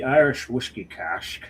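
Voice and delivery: lightly voiced Scottish accent; a hint of slushy Scottish s sounds; Sean Connery. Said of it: "was that your Sean Connery?".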